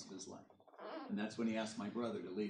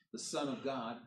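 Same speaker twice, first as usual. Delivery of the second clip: ordinary talk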